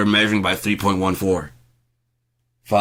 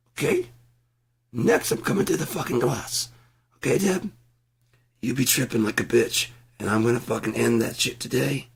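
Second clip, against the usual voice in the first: mock yelling rehearsal; 6 semitones higher than usual. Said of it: "get the yelling out of the system".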